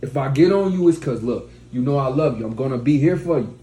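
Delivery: firm, emphatic declaration; strong mighty man. Acted. Mighty man telling his woman what to do, firm. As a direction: lay it down like a man who means it. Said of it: "you want a strong man".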